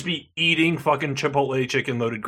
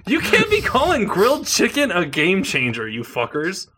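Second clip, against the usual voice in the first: outraged shout; 5 semitones higher than usual. Real, not acted. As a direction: yell it in disbelief. Outraged reaction to the ad copy.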